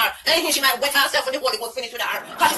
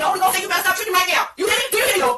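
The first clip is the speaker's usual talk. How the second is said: preacher scold; 4 semitones higher, faster than usual. Acted.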